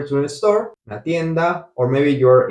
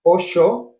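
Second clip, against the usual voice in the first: slow demo; slower than usual. Shown as a demonstration. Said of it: "we would say it like this".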